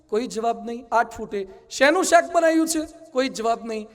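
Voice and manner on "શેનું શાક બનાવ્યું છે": raised, higher call across the room. Retold or imitated. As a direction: call to the wife once more. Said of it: "બૂમ પાડજો". (દૂરથી બૂમ પાડીને પૂછવું)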